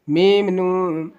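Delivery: name میم and نون as separate, drawn-out letters; slow میم نون without merging the two; letters kept unjoined. Shown as a demonstration. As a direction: keep میم apart from نون. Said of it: "اب میم کو نون سے نہیں ملانا".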